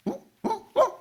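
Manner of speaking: short, repeated high "huh?"; quick little yelps of surprise; startled gasps. Acted. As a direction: react in acted bewilderment. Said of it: "놀라는 거죠".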